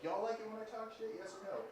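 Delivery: high-pitched stage call at a contained volume; half-volume imitation of a rapper addressing a crowd; a rapper's voice. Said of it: "Like, those voices"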